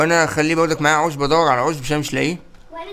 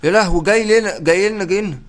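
panicked alarm; 4 semitones higher than usual. Real, not acted. Enemy rushing at them.

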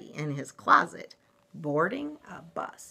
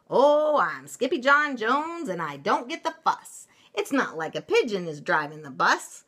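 bouncy kitten; 7 semitones higher, 6 dB louder than usual. Acted. Kitten chants while bouncing around.

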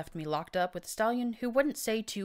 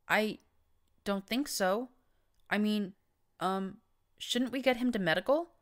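higher, halting worried plea; clear worry; 6 semitones higher, 3 dB louder than usual. A narrator's reading. Mare urging the Overmare toward medical, worried plea. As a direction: fret about the hurt stallion. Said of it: "said in clear worry".

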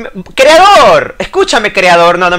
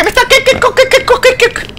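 much higher, laughing rapid questions; baffled laugh. Real, not acted. Player baffled by something odd, laughing. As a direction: giggle it out in disbelief.

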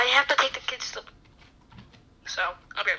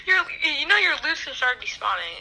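laughing; 2 semitones higher than usual. Real, not acted. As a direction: laugh through the words. Laughs at friend.

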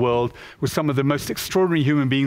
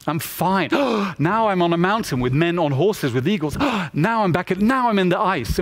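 put-on thrilled child; 3 semitones higher than usual. Child thrilled inside virtual reality.

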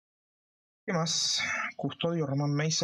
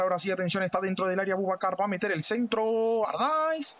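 play-by-play commentary; 3 semitones higher than usual. Acted. Football play-by-play.

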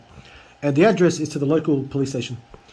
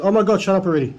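exasperated; 4 semitones higher, faster than usual. Retold or imitated. Fed-up reply to scammer's chatter.

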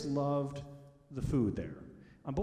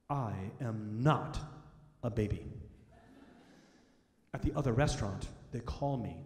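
put-on indignant little girl; 4 semitones lower than usual. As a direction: put the waiter in his place with dignity. Five-year-old daughter corrects the waiter.

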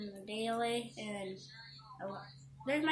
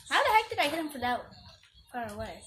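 excited disbelief; 3 semitones higher, 6 dB louder, faster than usual. Real, not acted. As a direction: rush it out amazed.

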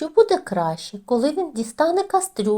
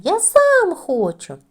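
high, loud, slow insistent shout; stubborn shout; 8 semitones higher, 7 dB louder, slower than usual. A narrator's reading. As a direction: stamp your foot with each word. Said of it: "кричить Тім". (уперто, гучно й повільно: «Я сам хочу!»)

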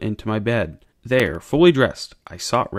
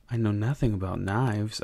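quiet, much softer, only a hint of a whisper; narrated whisper; 3 semitones lower, 8 dB quieter than usual. A narrator's reading. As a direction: say it under your breath, hushed but still voiced. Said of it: "I whispered".

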